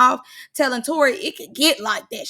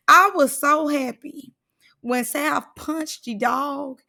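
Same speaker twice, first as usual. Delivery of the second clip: ordinary talk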